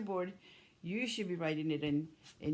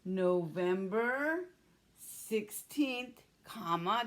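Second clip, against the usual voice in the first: slow dictation; much slower than usual. Shown as a demonstration. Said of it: "Do you have your November?".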